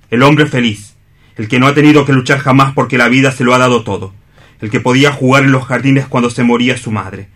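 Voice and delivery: a proud, hurt man giving up his love; stage-drama Juan, grief held under pride; anguished rival in a radio play; Juan, bitter and wounded. Acted. Juan confronts Fernando and Chole.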